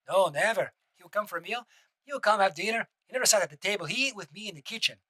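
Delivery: a light, self-admittedly weak imitation of Alessi's accent; quoting the butler's testimony in his accent, not very well; Juan Alessi's accent. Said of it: "that accent is not as good".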